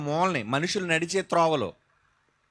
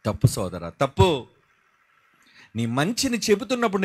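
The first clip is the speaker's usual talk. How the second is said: ordinary talk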